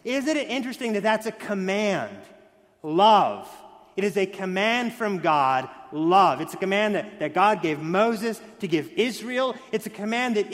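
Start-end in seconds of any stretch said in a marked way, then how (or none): 2.8-3.5 single word hit loud; emphatic love. Real, not acted. Preacher to the congregation, stamping Love. loudly. 5.9-6.4 single word hit loud; emphatic love. Real, not acted. Preacher to the congregation, stamping Love. loudly.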